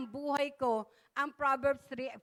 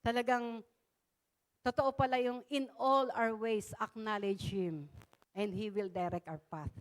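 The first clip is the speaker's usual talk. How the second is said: soft prayer; 4 semitones lower, 5 dB quieter than usual. Retold or imitated. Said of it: "sabi ko".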